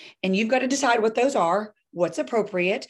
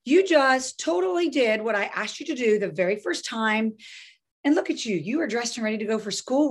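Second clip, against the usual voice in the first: a lightly raised delighted parent voice; praising parent; 3 semitones higher than usual. Shown as a demonstration. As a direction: cheer the kid on for cooperating. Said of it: "but then I go".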